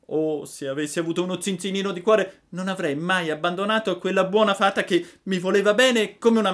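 high, fast regretful puppet; Pinocchio remorseful. A narrator's reading. Pinocchio laments leaving the fairy, high and fast. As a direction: rush through the regret.

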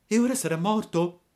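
high, grieved puppet question; pained. A narrator's reading. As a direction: break in fearing the worst. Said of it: "interruppe Pinocchio con gran dolore". (con gran dolore, voce acuta)

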